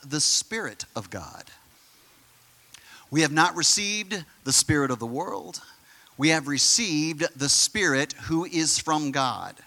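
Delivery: slow, deliberate Bible reading; scripture reading. Real, not acted. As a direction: read each phrase out with weight and pauses. Reads scripture aloud to congregation.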